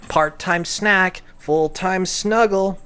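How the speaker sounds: sweet singsong caption read. Pretend. Repeats caption more performed.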